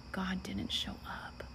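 soft, slow, dejected retelling; sunken-hearted. Retold or imitated. Student crawling into bed after God's absence, quietly disheartened. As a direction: let it sink quietly, drawn out. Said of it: "my heart just was sunken".

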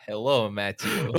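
a light count's hello to Matthew; vampire greeting. Acted. Co-host greets the host in a light vampire voice. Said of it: "It's a vampire".

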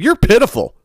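squeaky put-on voice, mocking the shoplifting mom; mocking the mother. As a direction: sneer it in a silly high voice. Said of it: "She said".

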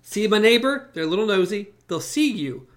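a hushed, fretful imitation; hushed mock. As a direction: mutter it like a nervous gossip. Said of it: "He's like".

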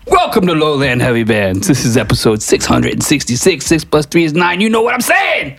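building to a high-pitched shouted finish; hammed-up announcer intro. Guest takes over the podcast intro, hammed-up announcer voice.

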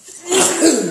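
loud sudden sneeze; sneezing. Real, not acted. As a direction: let out a real sneeze. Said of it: "I'm about to sneeze".

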